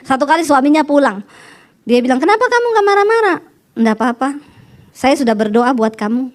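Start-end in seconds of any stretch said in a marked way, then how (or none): 2.2-3.4 higher-pitched baffled question; retold puzzled husband. Husband confronts his calm wife. 3.7-6.3 low, unbothered reply; retold placid wife; calm wife. Wife calmly answers her husband.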